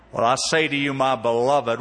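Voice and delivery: a hint of an old Southern radio preacher accent. Pastor imitating the Southern radio preacher to his church, light Southern accent. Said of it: "with a deep Southern accent".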